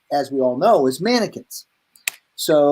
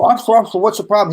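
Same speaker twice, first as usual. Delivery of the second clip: raised-pitch, mildly frantic appeal; mock panic; 3 semitones higher, 3 dB louder, much faster than usual. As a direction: act out flustered pleading with police. Retold pleading with policeman.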